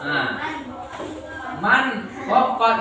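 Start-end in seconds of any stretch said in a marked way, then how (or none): 1.6-2.7 "man khaffat" with a distinct n; clear nun reading. Shown as a demonstration. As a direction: keep "man" unblended before "khaffat". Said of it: "begitu cara membacanya".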